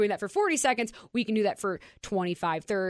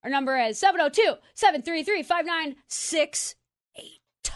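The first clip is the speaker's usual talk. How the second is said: radio contest promo. Acted. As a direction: hype the ticket giveaway. Ticket giveaway on air.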